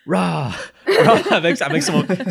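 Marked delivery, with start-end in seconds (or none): 0.0-1.2 rah rising to a high yell; half-laughing cheer, building loud; crowd war cry. Acted. Villager at the back joins in, high loud cheer. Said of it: "someone in the back is like".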